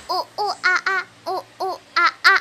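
giggly monkey hooting; monkey sounds. Pretend. Child shows how a monkey sounds, hooting with a laugh. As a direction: hoot like a little monkey. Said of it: "gimana ya kalau bunyi suara monyet".

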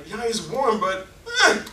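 rally disciples like a prophet on fire; zealous Elisha. Retold or imitated. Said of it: "Elisha was like".

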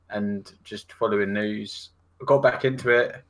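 ordinary talk, nothing marked

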